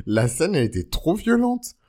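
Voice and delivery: high loud outraged burst; almost squealing it; excited exclamation. Real, not acted.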